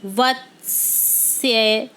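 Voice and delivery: teacher stretching वत्सर्य slowly for the class; slow, careful pronunciation. Shown as a demonstration. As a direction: spell out वत्सर्य slowly, syllable by syllable. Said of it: "वत्सर्य को हम कई बार गलत लिख देते हैं".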